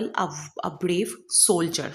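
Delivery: a brave soldier, each word drawn out very slowly; slow spelled-out example. Shown as a demonstration. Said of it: "for example". ("a brave soldier" बहुत धीरे-धीरे, एक-एक शब्द)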